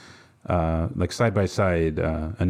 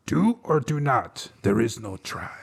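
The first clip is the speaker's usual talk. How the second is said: slow, higher little Yoda voice; 3 semitones higher, slower than usual. Retold or imitated. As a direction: croak it slowly like the tiny green master. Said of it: "uh, from Yoda".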